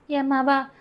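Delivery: high, crying plea for her daughter; panicked mother's wail; wailing in distress. Acted. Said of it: "கேட்டு கதறினாள் அவள்".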